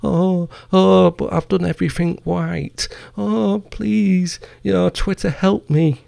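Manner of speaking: high, whimpering mock plea; high mock sob of a pleading director; mock whiny crying. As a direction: imitate a crybaby begging Twitter for help. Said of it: "he's like".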